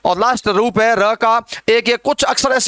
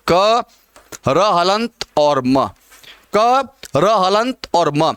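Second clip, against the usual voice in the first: spelled out slowly; 3 semitones lower, much slower than usual. Shown as a demonstration. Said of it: "spelling out the letters".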